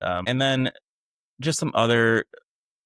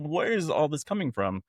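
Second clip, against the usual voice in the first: bewildered; 6 semitones higher than usual. Retold or imitated. Retold bewilderment at the outburst.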